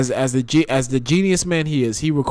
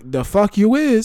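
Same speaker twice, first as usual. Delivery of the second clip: defiant retort; 8 semitones higher, 4 dB louder, slower than usual. Retold or imitated. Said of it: "He was like".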